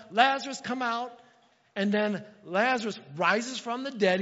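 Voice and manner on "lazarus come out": high, loud call; retelling the command with a loud call; shouting. Acted. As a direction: shout the name across the grave. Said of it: "And then he shouts".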